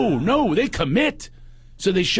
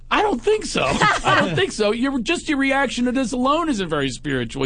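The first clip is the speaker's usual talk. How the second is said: mock scoff; 10 semitones higher than usual. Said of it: "I go".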